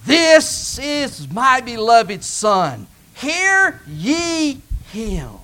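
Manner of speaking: very slow, solemn proclamation from above; God declaring his beloved Son. Acted. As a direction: let each word fall like thunder from heaven. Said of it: "voice came out of heaven".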